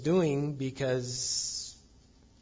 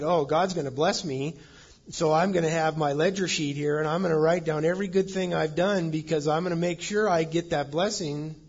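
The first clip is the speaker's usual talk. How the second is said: louder, hurried mock eagerness; eager self-serving; 4 semitones higher, 6 dB louder than usual. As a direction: play someone busily tallying their good deeds for reward. Voices an eager blessing-counter.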